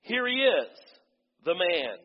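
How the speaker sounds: high, loud proclamation; Pilate announcing. Acted. Pilate presenting Jesus to the crowd, proclaiming loudly. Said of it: "Pilate announced".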